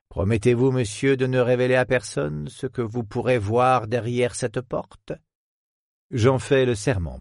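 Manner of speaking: a hint of a proud, conspiratorial academic; lightly voiced old professor.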